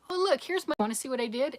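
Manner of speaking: high, loud "oh, look" burst; mock eager show-and-tell. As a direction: act out eagerly showing off your work. Voicing herself showing off lessons.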